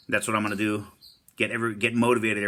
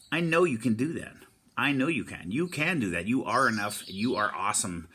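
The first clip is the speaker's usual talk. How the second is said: encouraging pep talk. Real, not acted.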